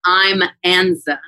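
"I'm Anza", slow and deliberate; I'm Anza, slowly. Shown as a demonstration. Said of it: "they think I say".

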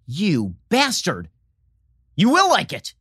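hammed-up bully forcing it on you; mock villain threat. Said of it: "And like".

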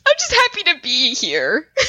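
high, laughing cheer; delighted little yay; excited gush. Real, not acted. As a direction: squeal it out happily.

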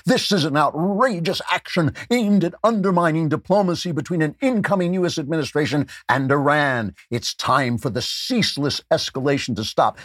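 high, indignant mock outrage; outraged voice. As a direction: read it like a scandalized official. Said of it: "I have to do it in an outraged voice".

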